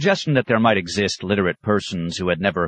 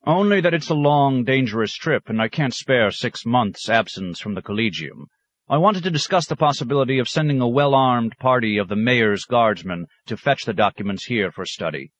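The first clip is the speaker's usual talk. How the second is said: raised, eager scholar, higher pitched; a proud scholar pressing his point; keen academic pressing the monsignor; scholar's voice; 6 semitones higher than usual. Acted. Scholar Thon Taddeo speaking.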